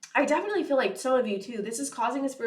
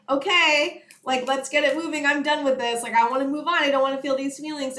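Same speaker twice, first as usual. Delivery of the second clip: a mock impatient rant; impatient retold outburst; 3 semitones higher, 4 dB louder than usual. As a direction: hurry the grief along. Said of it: "But I'm like".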